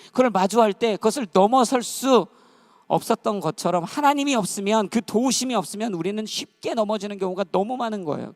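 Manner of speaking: loud, high, impassioned preacher delivery; forceful preaching. Real, not acted. Preacher warning the congregation about facing temptation alone, forceful. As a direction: press each phrase with rising urgency.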